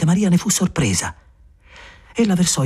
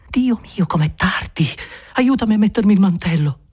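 alarmed Maria; 6 semitones higher than usual. Acted.

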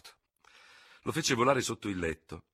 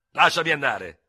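louder, urgent plea; pleading; 8 semitones higher, 12 dB louder than usual. Acted. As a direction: beg her to let go, gently. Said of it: "implorò il tenente di Hubert". (supplica, più forte)

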